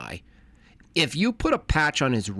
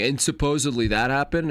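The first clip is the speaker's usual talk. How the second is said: mildly incredulous mock question. Host mimicking the storyteller he finds droning, mildly incredulous. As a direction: imitate a doubtful storyteller, lightly. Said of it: "where he's incredulous and going".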